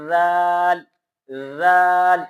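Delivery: زال said softly with tongue tip between teeth; soft zaal demo. Shown as a demonstration. Teacher showing students the soft زال. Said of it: "اس طرح پڑھنا ہے".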